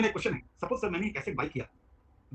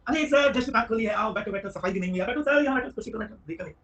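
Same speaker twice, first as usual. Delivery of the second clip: fawning shopkeeper; 3 semitones higher, 3 dB louder than usual. Retold or imitated. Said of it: "tone change हो गया".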